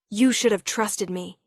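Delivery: raw, exposed reproach; voice stripped bare. Acted. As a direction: let the hurt show through. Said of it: "his voice stripped bare".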